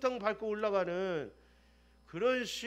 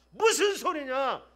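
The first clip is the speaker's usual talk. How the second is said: stern rebuke; 2 semitones lower, 4 dB louder than usual. Retold or imitated. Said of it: "이렇게 하자마자".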